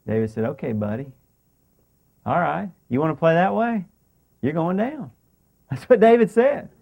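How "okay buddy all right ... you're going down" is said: soft, restrained mock threat; understated anger. David answering Nabal's refusal, quietly angry. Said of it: "And David got angry".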